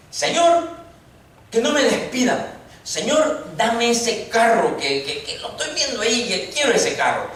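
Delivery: hammed-up wishful begging; mock petty prayers. Preacher mocks believers' selfish prayers, lightly pleading. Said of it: "qué cosas pedimos en oración nosotros".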